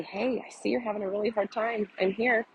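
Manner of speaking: put-on quiet down and comfort a melting-down toddler; calm reassurance. Shown as a demonstration. Parent holding a toddler mid-tantrum, soft and reassuring. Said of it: "get on their level and say".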